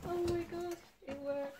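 high, thrilled burst of delight; excited squeal. Real, not acted. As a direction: squeal with real relief. Print came out well.

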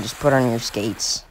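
a deflated, quiet repeat; resigned mutter. Real, not acted. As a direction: say it under your breath, tired of repeating. Repeats the same advice, resigned.

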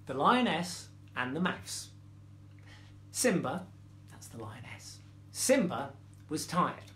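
measured storytelling with pauses; story reading. A narrator's reading. Storyteller reading a fable to children, measured story reading. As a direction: read it gently to young children.

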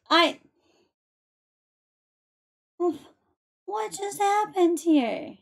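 overjoyed by a surprise gift, shouting thanks; excited. Real, not acted. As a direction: streamer thrilled by gifted subs, calling out. Surprise gift subs from viewer.

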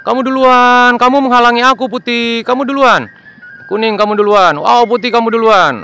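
bossy little plane, pitched high; high toy plane voice. Acted. Plane tells Putih to go first, high and insistent. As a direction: urge your friend ahead like a tiny plane. Planes arrange landing order.

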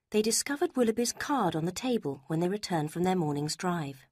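ordinary delivery

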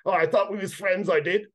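high, hurt creature whine; speared kobold whining to his friend; wounded kobold. A narrator's reading. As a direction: whimper at the betrayal. Stabbed kobold betrayed.

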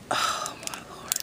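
soft, breathy amazement; real whispered disbelief; awed whisper. Real, not acted. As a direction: breathe the words out in wonder. Awed at the stamp.

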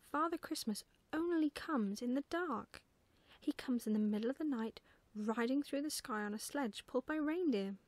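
put-on lively child character explaining keenly; lifted, emphatic, mildly exasperated explaining; lightly voiced little girl, full of conviction; eager little girl.

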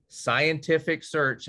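slow, drawn-out sarcastic emphasis. Acted. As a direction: say it with heavy irony. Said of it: "I say that very sarcastically".

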